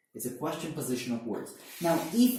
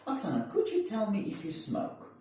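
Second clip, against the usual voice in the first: polite, tentative; 5 semitones higher than usual. Shown as a demonstration. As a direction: ask gently, to sound polite. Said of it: "This is much more polite".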